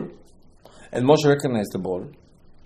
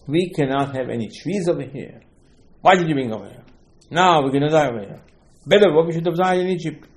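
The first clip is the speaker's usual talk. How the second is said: mild retold scream. The people confront Moshe and Aaron in the desert, mildly screamed complaint. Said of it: "they start to scream at him".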